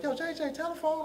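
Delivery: lightly voiced sister, high-pitched call; high, quick holler of a name. Sister calling him to the phone.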